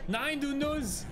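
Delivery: high, slow exasperated wail; drawn-out scolding. Real, not acted. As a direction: stretch it out, scolding. Scolding game character in panic.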